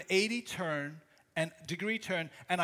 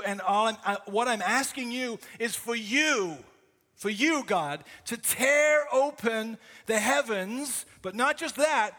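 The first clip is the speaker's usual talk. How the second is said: desperate prayer. Acted. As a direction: lean into the plea, urgent and raw. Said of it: "you can hear that prayer, that desperate prayer".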